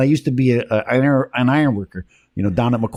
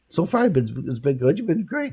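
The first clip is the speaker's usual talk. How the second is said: whisper; 3 semitones higher, 4 dB quieter than usual. Real, not acted. Whispering to guest during break.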